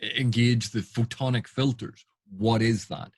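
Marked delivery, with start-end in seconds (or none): 0.0-2.1 firm command. Shown as a demonstration. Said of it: "and the captain say".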